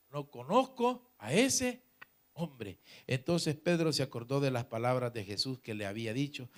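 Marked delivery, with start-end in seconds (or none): 0.1-2.8 slow, halting oath, pausing before "hombre"; swearing denial. Acted. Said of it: "a maldecir y a jurar".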